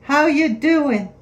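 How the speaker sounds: Long Island how you doin; long island accent. Shown as a demonstration. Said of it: "Long Island accent check".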